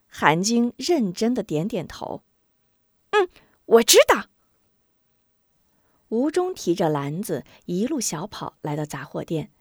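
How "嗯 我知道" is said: put-on high, loud girl promising; little girl. Sister promises brother, earnest high girl voice. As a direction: nod earnestly as you say it.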